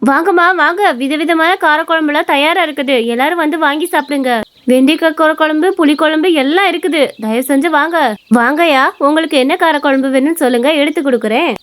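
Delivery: lilting vendor's call; lightly acted hawker's patter; food seller calling. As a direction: invite passers-by to buy your curries.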